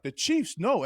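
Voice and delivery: a sudden high yelp of disbelief; high-pitched "no" of dread; mock alarm. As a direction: gasp it out like the worst news. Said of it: "right then I'm like".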